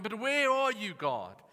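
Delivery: high, loud mock complaint, falling at the end; moaning and griping. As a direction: gripe plaintively as if abandoned. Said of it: "you start moaning and griping".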